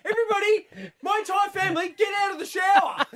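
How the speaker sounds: high mock shout; exasperated dad. Dad ordering family out of the shower, exasperated high shout. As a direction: holler at the whole family, voice way up.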